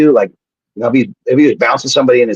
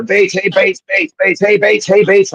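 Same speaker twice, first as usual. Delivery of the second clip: calling out; 9 semitones higher, slower than usual. Retold or imitated. Townsfolk calling out his name.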